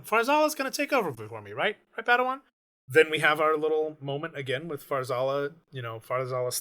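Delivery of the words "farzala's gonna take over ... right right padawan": high, pleading Obertuk. Retold or imitated. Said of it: "Obertuk is like".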